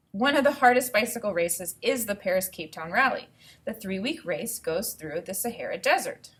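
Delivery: clear, even read-aloud voice; reading to children. Acted. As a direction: read the book to the class. Teacher reads book aloud.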